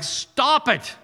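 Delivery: slow, stern stop it; firm stop it. Real, not acted. Preacher scolding congregation's negative talk, slow stern. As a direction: cut them off firmly. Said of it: "rebuking congregation".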